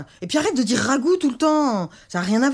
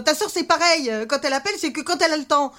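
upset, higher crying voice; tearful; 5 semitones higher than usual. Acted. Mother complains her daughters don't care, tearful. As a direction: pour out the hurt through tears. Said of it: "maman, pleure pas".

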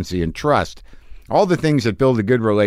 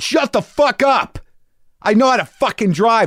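mock angry yell; 14 semitones higher than usual. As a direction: snap back in a shrieking retold rage. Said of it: "And I said".

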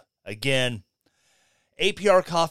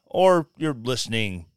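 ordinary talk, nothing marked

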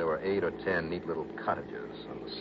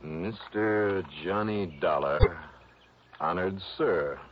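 put-on old-fashioned letter reading; slower than usual. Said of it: "Sounds like an old Shakespearean actor".

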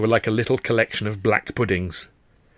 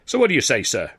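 higher, theatrical appeal to the constable; declaiming dramatically; 3 semitones higher than usual. Acted. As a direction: ham it up for the audience. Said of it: "Sid declaimed dramatically".

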